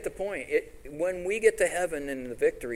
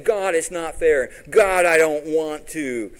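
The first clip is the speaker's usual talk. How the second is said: drawn-out, slow, louder whine to God; whining complaint; 4 semitones higher, 9 dB louder, slower than usual. Retold or imitated. Preacher mocks a believer whining to God, slow. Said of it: "Quit whining and saying".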